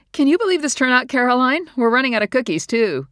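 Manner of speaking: high, loud, bubbly party chatter; Linda's voice. A narrator's reading. Linda chatting cheerfully at the refreshments, high and loud. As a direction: chirp it out over the noise.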